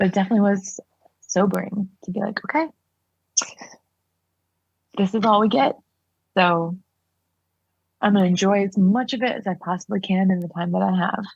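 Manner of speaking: tearful, speaking through tears, crying while talking. Talking about going through life without experiencing loss, crying while talking. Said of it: "I didn't mean to cry".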